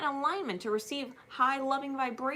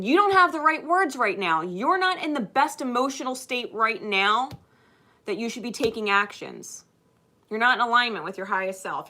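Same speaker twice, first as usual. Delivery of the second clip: louder, firm inner voice slowing to calm; higher self's voice; 5 dB louder than usual. Acted. Higher self scolding the speaker, then calming. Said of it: "higher self said".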